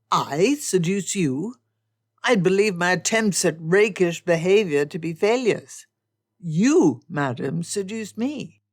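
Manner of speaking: loud, emphatic gentleman's retort; Darcy indignant. Acted. Darcy turns Elizabeth's accusation on her, loud and indignant. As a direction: throw the accusation back at her with force.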